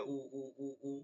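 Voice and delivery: উ as a bare throat vowel "oo", no w; mistaken plain u. Shown as a demonstration. Teacher shows the common mistake, bare oo. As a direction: repeat উ from the throat, without a lip glide. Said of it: "আমরা ভুল করি উ দিয়ে".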